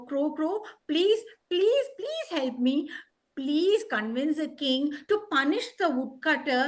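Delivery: insistent crow's plea; mildly urgent begging; pleading. Acted. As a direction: beg with repeated, stressed pleases. Crow begs the queen for help.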